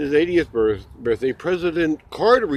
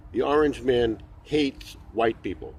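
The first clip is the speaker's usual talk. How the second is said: deadpan joke; 4 semitones lower, 5 dB quieter, slower than usual. Pretend. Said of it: "That's a joke".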